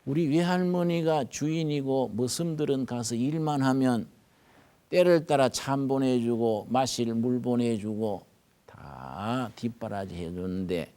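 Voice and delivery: ordinary talk, nothing marked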